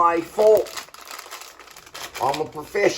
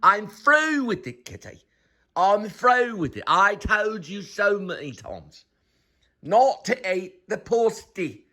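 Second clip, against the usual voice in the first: raised, exasperated pet-owner scolding; scolding the cat; 5 semitones higher than usual. Real, not acted. Owner scolding the kitty for eating the pasta, exasperated. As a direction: tell the naughty cat off, voice up high.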